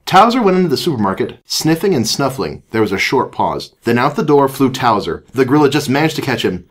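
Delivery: animated read-aloud voice; story narration. A narrator's reading. Reads a children's story aloud.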